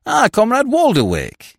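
high, loud, genial hail; lordly, unruffled welcome; benevolent greeting. Acted. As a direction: greet him with airy delight. Benevolent greeting to angry youth.

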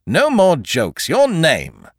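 a stern magistrate who has lost patience; sharp demand. A narrator's reading. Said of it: "said sharply".

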